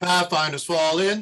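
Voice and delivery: projected, loud, high drill-instructor voice. An instructor calls a formation, showing command voice: loud command voice. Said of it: "that's my command voice".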